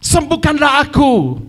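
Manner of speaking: high, drawn-out plea shouted for healing; crying out. Acted. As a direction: call out desperately as the blind man. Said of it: "dia berteriak".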